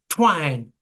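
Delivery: mild mock yell, one falling word; imitated yell. Imitating Robert's shout on the record, mild yell. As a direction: call it out without full volume. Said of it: "at one point you said".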